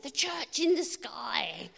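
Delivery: a sudden high "No", then slow, drawn-out words; insisting, pointing upward; flight attendant insisting. Retold or imitated. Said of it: "He said".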